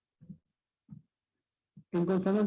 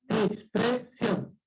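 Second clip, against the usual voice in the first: expresión drawn out very slowly; much slower than usual. Shown as a demonstration. Teacher drawing out the word for the class, very slow. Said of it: "la regla dice".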